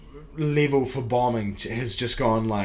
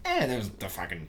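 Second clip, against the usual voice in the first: low, soft shrug-off; muttered, lowered indifference; dismissive; 5 semitones lower, 7 dB quieter than usual. Retold or imitated. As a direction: toss it away like nothing. Shrugging off a bombed open mic.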